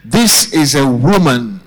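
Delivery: rousing sermon build, each opening lifted high; preaching refrain. Real, not acted. Preacher recounting the ignored woman's trials to the church, rousing. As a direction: drive the repeated phrase home to the congregation.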